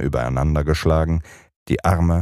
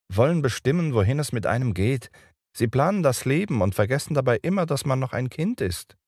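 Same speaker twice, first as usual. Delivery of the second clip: put-on scornful boy; 9 semitones higher, faster than usual. A narrator's reading. Peter grumbles about parents, higher boyish voice. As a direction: complain like a defiant boy.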